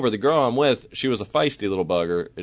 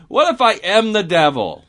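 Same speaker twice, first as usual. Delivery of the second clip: mock worried wondering; 10 semitones higher, 5 dB louder than usual. Storyteller admitting it kinda worried him, mock worry. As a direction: pitch it up in comic self-doubt.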